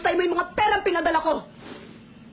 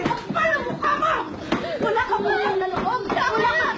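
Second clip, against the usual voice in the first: tearful shouted confrontation; 4 semitones higher than usual. Acted. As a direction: scream it through tears. Mother's tearful tirade at daughter. (lumuluhang sigaw sa komprontasyon)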